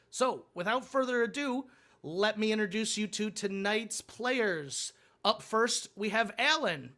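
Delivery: upbeat host welcoming the audience; game show host. Acted. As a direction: open the show like a TV host hyping the players.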